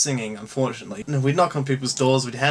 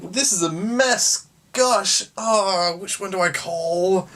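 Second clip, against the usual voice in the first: high, squeaky mock panic; mock flustered reader; 4 semitones higher, slower than usual. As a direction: play a flustered homeowner lost in the Yellow Pages. Mock reader of business cards.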